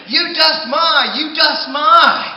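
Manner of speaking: high, loud sputtering scream; mock scream. Pecan log screaming back at the man in the store. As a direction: splutter it in a rage, slow. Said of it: "he's now screaming".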